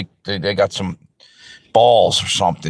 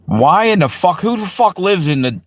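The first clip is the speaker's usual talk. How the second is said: outraged high yell; 8 semitones higher than usual. Real, not acted. Outraged rant at government.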